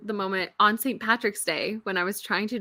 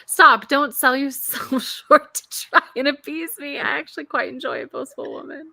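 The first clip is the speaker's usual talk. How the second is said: put-on Scottish accent; 3 semitones higher, 4 dB louder than usual. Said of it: "not do it in a Scottish accent?".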